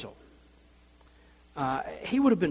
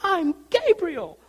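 much higher, louder, drawn-out showy take; mock tough hero voice; 12 semitones higher, 6 dB louder, much slower than usual. Shown as a demonstration. Preacher mocking a showy angel, high and slow. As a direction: ham up a booming grand entrance. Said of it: "I don't think he said".

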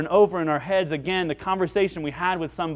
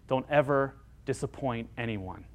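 ordinary delivery

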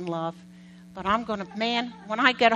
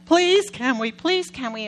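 put-on begging kids; 2 semitones higher, 5 dB louder than usual. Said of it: "it's like".

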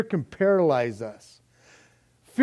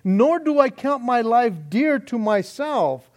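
defiant testimony; 5 semitones higher than usual. Acted. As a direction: declare it unshaken. Paul's defiant reply, preached.

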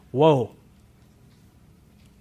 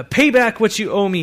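a hint of a harsh demand, louder; 8 semitones higher, 7 dB louder than usual. A narrator's reading. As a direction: press the debtor hard. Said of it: "he demanded".

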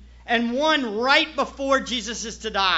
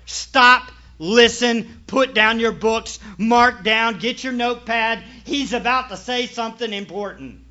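commanding call; 6 dB louder than usual. Retold or imitated. Voicing God's call to listen.

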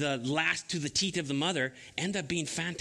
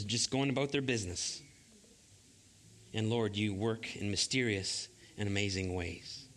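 prayer; 3 semitones lower than usual. Real, not acted. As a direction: pray gently over the congregation. Pastor leads prayer.

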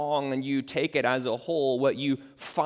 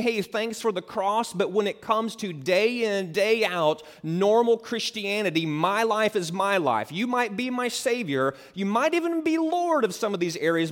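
pitched up, louder breezy believer voice; mock a self-ruled Christian, higher; mock casual believer; 7 semitones higher, 5 dB louder than usual. Preacher mimicking a believer who keeps his own life, higher mock voice.

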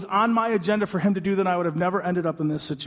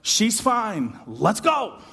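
higher, clipped push to move on; impatient urging; 4 semitones higher, much slower than usual. Retold or imitated. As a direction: hurry him, brisk and eager. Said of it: "Jairus is like".

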